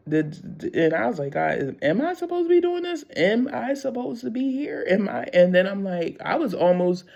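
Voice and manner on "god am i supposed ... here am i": anxious questioning. Retold or imitated. Questioning God, retold.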